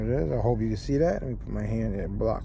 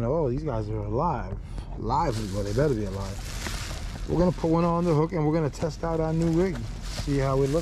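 crunching bag noise; 3 semitones higher than usual. Real, not acted. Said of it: "Sorry about all the crunching noise in the bag".

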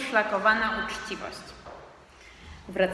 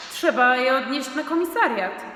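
louder, pressing demand; boy insisting to his father, raised voice; insistent shout; 4 semitones higher, 5 dB louder than usual. Acted. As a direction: insist loudly it must go to the police. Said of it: "krzyknąłem".

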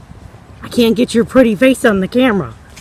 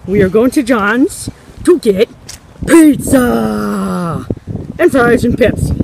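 breathless from walking; out of breath; slower than usual. Real, not acted. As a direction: talk while walking, short of breath. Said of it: "I'm a little out of breath 'cause I'm walking".

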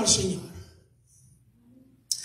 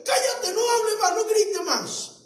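high, scornful shushing crowd; a hint of a jeering crowd, high and mocking; 5 semitones higher than usual. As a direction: hush the beggar with contempt. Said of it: "decirle al ciego".

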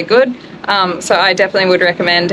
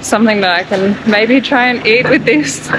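numb mouth, words slightly slurred; numb from the dentist. Real, not acted. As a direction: talk with half the mouth numb. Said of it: "As you can probably see and hear, half of my mouth is completely numb".

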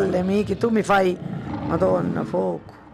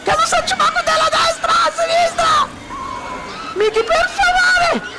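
panicked shouting. Real, not acted. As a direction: beg for it to stop in real fear. Mother terrified, begging son. (urla supplicando il figlio, terrorizzata)

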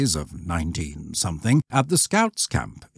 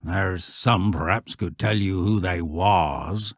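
put-on old shepherd.

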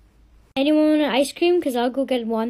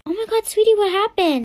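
put-on crying child; 7 semitones higher than usual. Child crying after being pushed.

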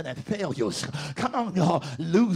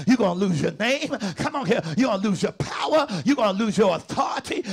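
whooping sermon. Acted.

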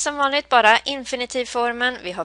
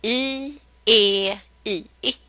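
vowel melody I E I; slower than usual. Shown as a demonstration. Teacher drills the vowel melody with learners. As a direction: chant the vowel tune down the steps. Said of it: "Nu kan vi det här".

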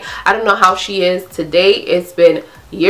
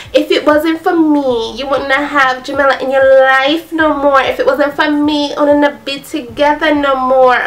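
imitating her higher Jamaican accent, insistent; 7 semitones higher than usual. Friend scolding the sugar daddy on the phone, in a Jamaican accent. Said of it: "I'm gonna say it in Jamaican".

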